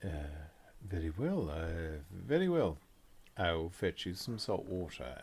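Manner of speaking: lightly voiced, hesitant polite servant; puzzled concierge. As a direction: agree haltingly to an odd order. Concierge reluctantly takes the order.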